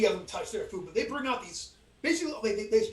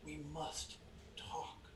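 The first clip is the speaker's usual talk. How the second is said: very hushed, very quiet private whisper; 6 semitones lower, 17 dB quieter than usual. Retelling how a woman leaned close and whispered, whispering very quietly. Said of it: "she whispers very quietly".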